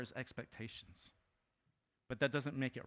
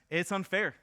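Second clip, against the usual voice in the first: whiny sister; 5 semitones higher, 6 dB louder than usual. Retold or imitated. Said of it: "she goes to Jesus and she goes".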